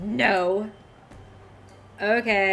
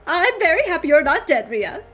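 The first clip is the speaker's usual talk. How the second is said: awed delight; 9 semitones higher, 6 dB louder than usual. Acted. Character marvels at reunion.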